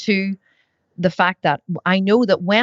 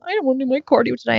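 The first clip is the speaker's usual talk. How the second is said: whining; 6 semitones higher, faster than usual. Retold or imitated. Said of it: "I was just having a wee suffer".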